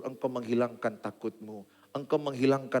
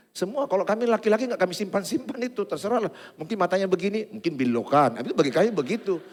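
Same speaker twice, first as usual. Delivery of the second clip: higher, louder, fast mocking gossip; mock gossiping men; 12 semitones higher, 6 dB louder than usual. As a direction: mimic men chattering about others' looks. Mimics men's gossip talk. (meniru gosip bapak-bapak)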